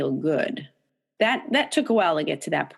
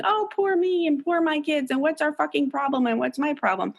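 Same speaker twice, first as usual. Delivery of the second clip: mock self-pity; 9 semitones higher than usual.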